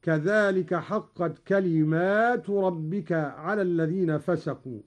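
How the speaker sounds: long aa after the mim in كلمات; plural reading with alif. Shown as a demonstration. Teacher showing Qalun's reading, كلمات with a long plural aa. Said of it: "بألف بعد الميم على الجمع".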